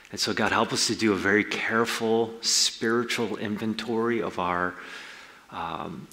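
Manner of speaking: earnest spoken prayer to God; closing prayer. Real, not acted. Pastor prays over the congregation, earnest and humble. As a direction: lead the church in a humble prayer.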